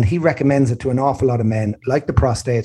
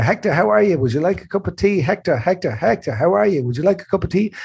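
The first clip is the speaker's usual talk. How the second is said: nurse voice; 5 semitones higher than usual. Retold or imitated. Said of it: "a lady talking to me".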